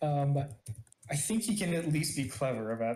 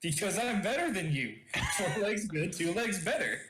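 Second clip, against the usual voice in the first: lightly voiced boastful cartoon character, higher pitch; slightly put-on superior cartoon voice; Boober; 4 semitones higher than usual. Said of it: "Boober, why are you walking on two legs?".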